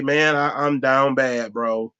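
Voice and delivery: low, sorry-for-himself whine; lightly voiced sad friend begging; mopey friend. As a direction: act down bad and pitiful. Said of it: "walk up to you like".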